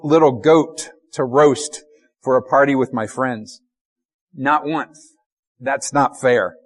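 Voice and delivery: a touch of resentment; mild angry son. Retold or imitated. Older son complaining bitterly to father, mildly angry. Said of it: "You can hear the anger".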